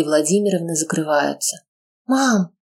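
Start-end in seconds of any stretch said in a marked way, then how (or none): 2.1-2.5 lost call. Acted. Daughter calling her mother, lost. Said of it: "потерянно окликает её Ева".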